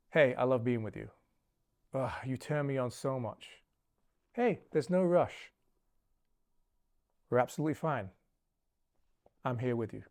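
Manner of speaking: low-key, grounded reassurance; calm, unbothered. Shown as a demonstration. Man to his partner after sex, calm and unbothered. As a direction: reassure gently, taking your time with long pauses. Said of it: "Your tone should be calm, unreactive, grounded, unbothered".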